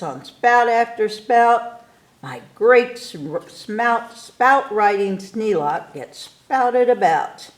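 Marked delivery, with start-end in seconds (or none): none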